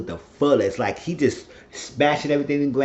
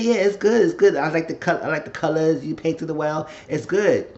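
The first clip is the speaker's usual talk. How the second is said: voiced Vandal; 4 semitones higher than usual. Voicing Vandal praising painting.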